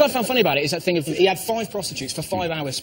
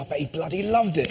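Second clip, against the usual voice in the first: ordinary talk, nothing marked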